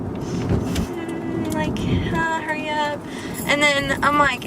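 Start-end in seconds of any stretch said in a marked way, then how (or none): 0.0-3.0 higher, held-in mock hum of discomfort; outwardly restrained. Donor hiding pain from the trainee, strained restraint. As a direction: keep the inner yell bottled up. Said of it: "outside, I'm like".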